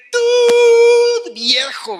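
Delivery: high loud shout of an insult. Retold or imitated. Customer leaving the shop, shouting at the old shopkeeper. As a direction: yell the insult on the way out. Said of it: "enojadísima".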